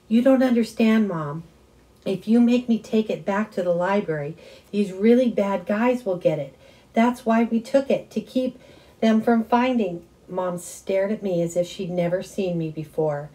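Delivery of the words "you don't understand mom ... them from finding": loud, high urgent pleading; desperate plea. A narrator's reading. Son urgently begging mom not to return the map. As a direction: push hard to make her understand.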